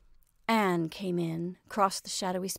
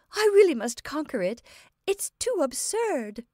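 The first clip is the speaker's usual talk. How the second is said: high, loud, fighting down laughter; helpless amusement; 7 semitones higher, 5 dB louder than usual. A narrator's reading. Anne tries to conquer her laughter, high and amused.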